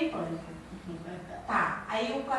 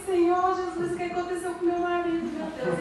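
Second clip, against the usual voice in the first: mock panic; 4 semitones higher than usual. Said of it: "entrei no pânico".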